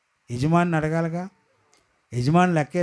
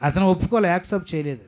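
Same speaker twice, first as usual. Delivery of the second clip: full-force preaching; 3 semitones higher than usual. Acted. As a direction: drive each phrase home.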